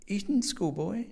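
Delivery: high, slow, doubtful query; questioning echo. A narrator's reading. Landlady querying guest's memory of Mulholland, doubtful. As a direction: draw the words out in disbelief.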